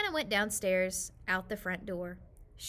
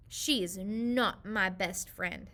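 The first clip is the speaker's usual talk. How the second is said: slow, sulky denial; pouting child insisting; 3 semitones lower, much slower than usual. Acted. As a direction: drag it out in a pout. Hannah sulking at dad.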